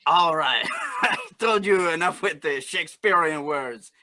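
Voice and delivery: lightly put-on Cajun accent. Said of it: "you still have to use your Cajun accent".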